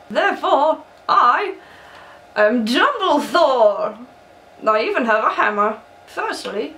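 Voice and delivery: lightly voiced old wizard; a hint of a wise old headmaster; Dumbledore voice. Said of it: "tired of doing this voice".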